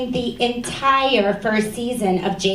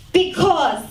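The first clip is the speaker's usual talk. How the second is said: Russian mother; 7 semitones higher than usual. Retold or imitated. Mother crying over the royal wedding, imitated Russian mom voice. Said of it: "the mom's Russian mother".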